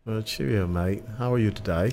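a light, jolly put-on British accent; hammed-up British accent, lightly done. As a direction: play a cheery Brit greeting a friend. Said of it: "be British, please".

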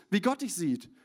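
ordinary talk

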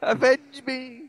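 hammed-up dying plea, laughing; overacted death scene. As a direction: cry out avenge me while falling. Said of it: "I just fall down the vents forever".

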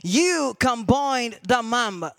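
slow, measured pronouncement; voice from a vision. Retold or imitated. The voice speaking to him in the vision, slow pronouncement. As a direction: give each word weight, slowly. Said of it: "another voice will come to him".

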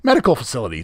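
a light mock of Vince McMahon, quick. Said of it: "Who talks like this besides Vince McMahon?".

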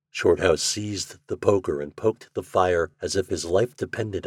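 low, measured storybook reading; story narration. A narrator's reading. Narrator sets the fireside scene, measured story narration. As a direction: read the tale in an even, subdued tone.

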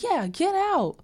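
high, insistent echo of a demand; mock angry order. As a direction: imitate a sidekick piling on. Margaret joins the order.

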